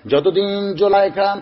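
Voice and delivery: lilting chant, the name repeated like a litany; melodic sermon storytelling. Acted. Preacher telling how Zulaikha chanted Yusuf's name, melodic chant. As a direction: intone the tale with drawn-out endings.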